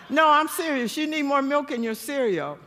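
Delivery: giggly mock-serious nagging; laughing insistence. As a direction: push the point while cracking up.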